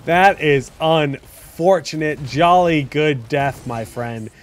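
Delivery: slow, lightly put-on British accent; a hint of a British gent consoling a fallen comrade; mock British. Caster in a light British accent mourning Nazeebo's death. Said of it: "jolly is a very British word".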